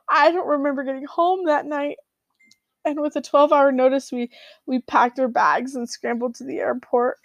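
fighting back real tears; crying. Real, not acted. Recalling leaving Chile without goodbyes, tearful. Retelling the sudden covid evacuation.

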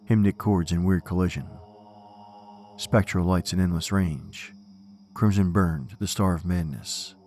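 poem recitation. Acted. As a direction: recite it with dark gravity.

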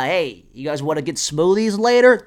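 mock uncool white-guy voice; loud, chipper dork making plans; nerdy white guy. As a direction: put on a dorky suburban voice. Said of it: "appropriating the nerdy white guy".

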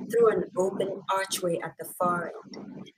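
normal talking voice

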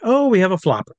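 teasing showman's aside; mock announcement. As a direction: play it up for the audience. Teasing the fallen volunteer to audience.

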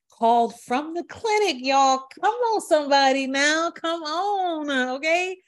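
high, loud hype, calling out to the crowd; excited preaching. Real, not acted. Testifying to her audience, loud excited preacher call. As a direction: whip up the listeners like a preacher.

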